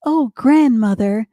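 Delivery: lightly voiced little-girl wonder; a hint of storybook amazement; Little Red Riding Hood. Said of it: "she said".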